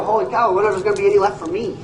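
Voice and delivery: fast, fretful mock worry about getting no pie; hurried mock panic. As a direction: rush it out like a panicked crowd member. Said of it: "You'd all start to go".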